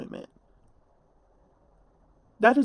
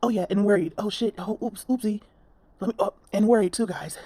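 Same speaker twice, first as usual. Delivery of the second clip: mocking whiny tone. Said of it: "you wanted to throw in there".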